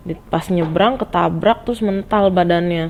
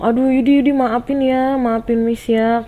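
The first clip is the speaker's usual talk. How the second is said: higher-pitched pleading apology; refleks minta maaf; 6 semitones higher than usual. Retold or imitated. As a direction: plead with a pupil, drawing out the end. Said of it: "refleks dong". (minta maaf memelas, nada tinggi)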